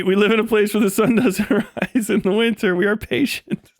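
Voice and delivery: an ominous Swede, patient and menacing; Swedish accent. Pretend. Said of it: "but you see".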